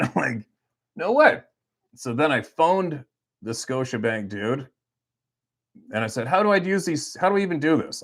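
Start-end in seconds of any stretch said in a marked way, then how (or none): 0.9-1.4 high, loud astonished no way; can't believe his luck; amazed disbelief. Retold or imitated. Disbelief at points value. 6.3-8.0 baffled caller. Retold or imitated. Confused call to bank.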